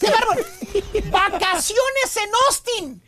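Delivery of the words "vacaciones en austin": slow, drawn-out "Vacaciones en Austin"; "Vacaciones en Austin" said at half speed, incredulously; incredulous repeat. Real, not acted. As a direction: stretch out "Vacaciones en Austin" in mock amazement. Scornful repeat after "qué bárbaro.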